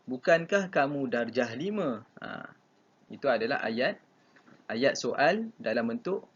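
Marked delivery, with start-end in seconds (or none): 0.1-2.1 "Bukankah kamu darjah lima" asked as a question; negative question. Shown as a demonstration. Teacher asking a pupil about their year, negative question. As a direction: voice "Bukankah" as the opening of a model question. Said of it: "Tapi kalau Mak Lim tanya".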